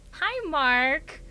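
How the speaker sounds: lilting villain greeting, slowly; creepy sing-song greeting. Pretend.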